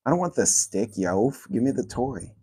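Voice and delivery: ordinary delivery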